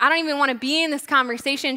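quick, dismissive mock retort; brushing off. Woman at the well avoiding Jesus, quickly brushing him off. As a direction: rattle it off to get out of talking. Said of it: "brushing Jesus off".

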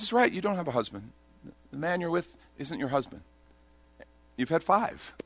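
imitating a casual, matter-of-fact correction. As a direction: state it simply, as established fact. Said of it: "he says it so matter of fact".

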